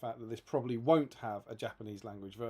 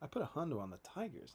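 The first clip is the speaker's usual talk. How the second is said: improvised mock American accent, softer; 3 semitones higher, 6 dB quieter than usual. Shown as a demonstration. Host improvising about a bet on the Tigers, mock American accent. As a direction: play a bettor in a rough American accent. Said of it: "Can you do an American accent?".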